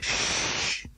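sharp breathy shush; hushing. A narrator's reading. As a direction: silence the noisy neighbours. Someone behind hushes them.

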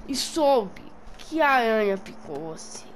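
sussurrando um segredo; whisper. Acted. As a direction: sussurro conspirador.

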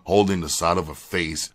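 ordinary delivery

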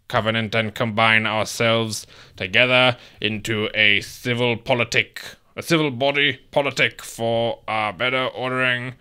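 put-on old-timey voice. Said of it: "a old-timey voice".

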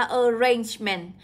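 "arrangement" stressed on -RANGE-; nhấn âm hai. Shown as a demonstration. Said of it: "nhấn vào số hai". (đọc "arrangement" nhấn vào "range")

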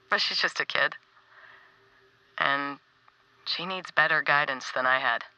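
gentle heartfelt message to a friend; tender farewell. Acted.

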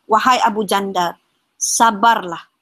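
retold calming words, measured and restrained; retold soothing. The Prophet comforts Abu Jandal as he is sent back, retold soothing. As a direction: gently counsel patience, as a retelling. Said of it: "Rasulullah menenangkan Ibu, Abu Jandal".

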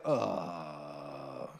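put-on a shy kid searching for words, dragging them out; awkward boy talking to girls. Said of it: "it's like".

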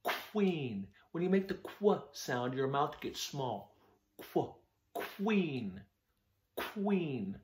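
Queen with small rounded lips on the kw; mouthing demo. Shown as a demonstration. Teacher showing children the small mouth for qu. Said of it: "Watch my mouth".

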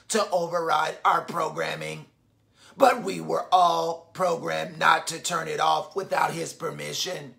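low, even robot voice. Acted. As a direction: reread it like a calm robot. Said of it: "what the robot said".

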